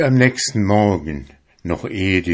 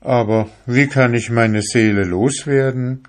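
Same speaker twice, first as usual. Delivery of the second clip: eager call; 5 semitones higher than usual. Acted. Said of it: "rief der junge Fischer".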